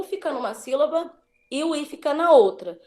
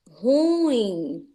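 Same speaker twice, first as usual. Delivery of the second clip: ruim whispered as ru-ím in two syllables; whispered example. Shown as a demonstration. Teacher to class whispering ruim as ru-ím. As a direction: breathe the word ruim without voice, split into ru and ím. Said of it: "A pronúncia correta é".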